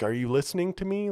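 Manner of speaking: high, loud, fast indignant demand; a rock singer ranting. Retold or imitated. A rock singer pleading with the crowd, high, fast, indignant. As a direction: impersonate a drunk rock star demanding attention. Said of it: "and he's like".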